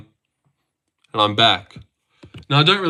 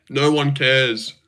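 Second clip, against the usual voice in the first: slow mock white guy voice; slow, smug mock of a white guy; slower than usual. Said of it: "says a white guy".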